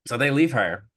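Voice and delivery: ordinary delivery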